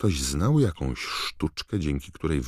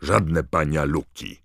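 indignant; 3 dB louder than usual. Acted. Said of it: "oburzyła się blada czarownica".

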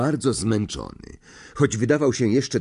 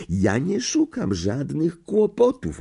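irritated; 7 semitones higher than usual. A narrator's reading. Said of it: "rozdrażnionym tonem".

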